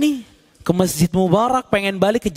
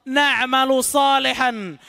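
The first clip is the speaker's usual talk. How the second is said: raised, imploring promises to God; pleading sinners; 5 semitones higher than usual. Acted. Souls in hell promising God to do good, imploring. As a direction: bargain desperately for another chance.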